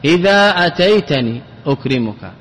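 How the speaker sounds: إذا with long open aa, no n; original full form. Shown as a demonstration. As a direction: say إذا as "idhaa" before أتيتني. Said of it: "هذا الأصل". (إذا بالألف دون تنوين)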